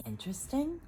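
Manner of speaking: high, questioning, confused; puzzled. Acted. Sister puzzled by Mama calling her dream interesting. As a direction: echo the word, baffled. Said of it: "in a puzzled voice".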